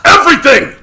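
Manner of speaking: high loud anguished cry. A narrator's reading. Mamaragon answers his sister, anguished cry. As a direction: cry it out near tears. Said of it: "Amargon cried".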